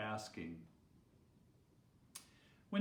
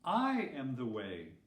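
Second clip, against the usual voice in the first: smiling; 2 semitones lower, 3 dB louder than usual. Acted. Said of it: "smiled Jesus".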